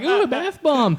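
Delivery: put-on girly squeal, very high, very loud. Speaker mocking how he sounds talking about bath bombs, in a put-on girly voice. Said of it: "sound like a girl saying that stuff".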